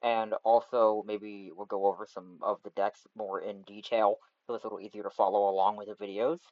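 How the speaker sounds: cheap USB mic sound; bad mic quality. Real, not acted. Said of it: "sorry about the bad mic quality".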